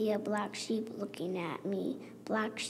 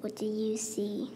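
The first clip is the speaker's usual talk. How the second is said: whispered question. Acted. Child reading picture book, whispering the refrain. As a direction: hush the refrain.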